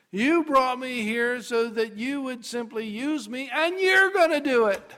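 high, building to loud; acted breakthrough, climbing in pitch; elated realization. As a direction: declare it with rising conviction. Moses realizes God will act.

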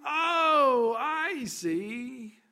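high, drawn-out revelation; acted aha moment, easing off; dawning realization. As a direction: let the understanding dawn aloud. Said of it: "when it finally dawns upon you".

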